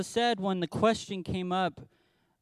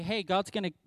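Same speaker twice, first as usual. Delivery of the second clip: brusque dismissive; 2 semitones higher, 5 dB louder than usual. Retold or imitated. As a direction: toss it off like you couldn't care less. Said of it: "All he does is stomp in there and say".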